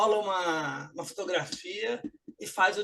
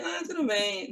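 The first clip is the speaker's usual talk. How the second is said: unconvincing "all good"; not really fine; 4 semitones higher than usual. Shown as a demonstration. Replying to a good-morning greeting, unconvincing reassurance. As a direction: answer that all is well without meaning it. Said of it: "Na verdade, não tá tudo bem".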